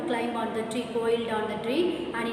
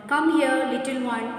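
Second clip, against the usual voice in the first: coaxing crocodile, a touch louder; sly crocodile calling; 2 semitones higher, 5 dB louder than usual. Acted. Crocodile luring the little elephant, coaxing and sly. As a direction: lure the little one closer, sweetly.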